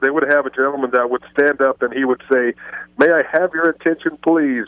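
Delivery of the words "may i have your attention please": imitated Hispanic-accented announcement, slightly higher. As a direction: mimic a gentleman addressing the crowd with a Hispanic accent. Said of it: "with a Hispanic accent".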